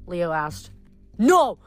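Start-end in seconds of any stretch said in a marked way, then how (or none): 1.2-1.6 sharp, loud shriek. Acted. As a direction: shriek it out in panic. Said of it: "Akmon shrieked".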